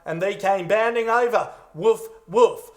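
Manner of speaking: flat, lazy dog impression; bad dog impersonation. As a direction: do a lousy woof. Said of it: "It would be like".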